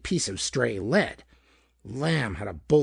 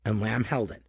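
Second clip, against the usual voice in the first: usual speaking voice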